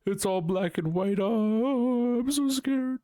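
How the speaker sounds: high, whiny mock fear; overdone scared whimper; mock anxious. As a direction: squeak out a parody of your own panic. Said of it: "causes me to be like".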